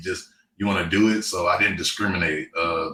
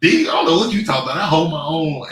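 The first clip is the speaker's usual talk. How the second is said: fast, louder mock protest; teammate quote; 7 semitones higher, 7 dB louder than usual. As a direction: brush it off fast and loud. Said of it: "he's like".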